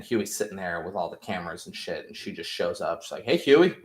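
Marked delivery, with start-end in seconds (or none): 3.2-3.7 sweet greeting. Retold or imitated. Nadia sweetly greets Huey in van.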